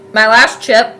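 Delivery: talking with a mouthful of chips; crunching chips. Real, not acted. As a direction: say it while chewing chips. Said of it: "I feel like I had chips in my mouth there".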